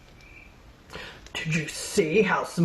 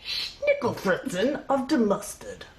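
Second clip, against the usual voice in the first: put-on German accent; 2 semitones higher than usual. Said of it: "fake German accent".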